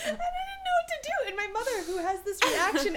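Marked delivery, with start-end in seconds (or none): 0.1-1.3 laughing. Real, not acted. Laughing at own mishap.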